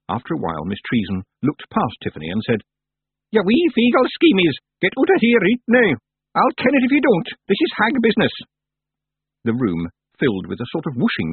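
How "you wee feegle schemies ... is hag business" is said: high, loud commanding crone; commanding old witch. Acted. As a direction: drive them out like a witch. Miss Treason orders Feegles out.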